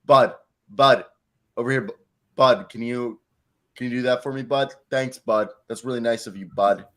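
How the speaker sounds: a mildly patronizing, fake-sweet string of Buds; condescending. Shown as a demonstration. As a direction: keep repeating Bud to make it uncomfortable. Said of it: "if I really wanna be an asshole".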